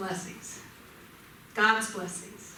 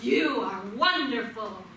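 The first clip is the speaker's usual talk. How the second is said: measured, projected call; mild shout. Acted. Father showing his son the echo, mild shout. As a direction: call it out to the mountain, only mildly shouted. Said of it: "And the father shouts".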